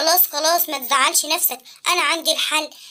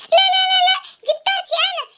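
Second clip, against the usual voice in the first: upset protest; 5 semitones higher, faster than usual. Acted. Boy protects his bike.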